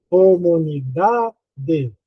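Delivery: "comunidade" slowly sounded out with a long "da"; slow demo of "co-mu-ni-DAAA-de"; stress on DA. Shown as a demonstration. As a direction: stretch "da" in "comunidade", then release "de". Teacher shows stressed syllable by stretching.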